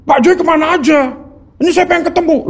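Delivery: "Pak Joy kemana aja?" with a high questioning tune, then "Ini saya pengen ketemu" falling, like a reproach; pointed questioning tune. Retold or imitated. Husband mimics wife's moody reading of the message, tune rising high on "kemana aja". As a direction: read it as if the message sulks. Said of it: "Ini loh bunyinya".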